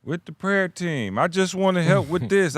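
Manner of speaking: mimicked eager volunteer. Mocking volunteers who want to be seen, mimicked helper. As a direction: imitate a humble offer, drawn out.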